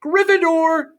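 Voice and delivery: high, loud proclamation; hat shouting. Acted. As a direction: bellow the house name. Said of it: "shouted the hat".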